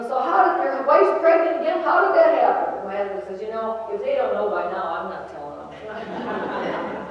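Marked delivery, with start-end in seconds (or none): 0.0-2.8 mock incredulous. Stranger's nosy question retold. 3.4-7.1 laughing punchline. Retold or imitated. Husband's joke, laugh heard.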